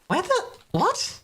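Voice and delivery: very high, squeaky laughing panic; panicked laughing breakdown. Real, not acted. Streamer can't find the quest guy, laughing in panic. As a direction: laugh and squeal through the search, losing it. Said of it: "having a freaking breakdown here".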